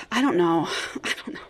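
cracked rib. Real, not acted. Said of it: "it hurts to breathe".

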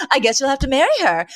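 sly half-whisper, retold. Niles slyly suggests marriage to boss.

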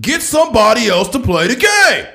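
loud, high ranting sports pundit; Stephen A. Smith. Retold or imitated. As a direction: rant it hot-take style, shouting. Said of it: "Stephen A. Smith impersonations".

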